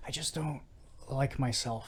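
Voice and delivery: soft, subdued mock confession; confessing. Barry confides in his brother-in-law, quietly confessing. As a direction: imitate a quiet, halting admission. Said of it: "And Barry's like".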